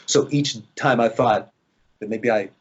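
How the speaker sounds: normal talking voice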